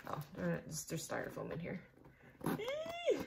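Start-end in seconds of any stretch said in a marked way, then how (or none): 2.6-3.2 high delighted squeal; happy squeal. Real, not acted. Finding heart-shaped styrofoam, a happy squeal. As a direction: squeal with glee.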